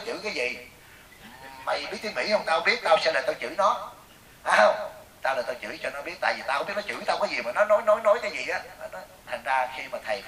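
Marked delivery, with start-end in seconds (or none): 1.6-8.6 mock indignant rant, lively pitch; retold quarrelsome scolding. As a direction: act out a woman spoiling for a row. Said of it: "rủ một cái bà lại để chửi lộn". (giả giọng bà đang đòi chửi lộn)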